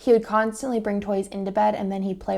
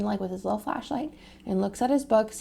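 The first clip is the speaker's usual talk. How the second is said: ordinary talk, nothing marked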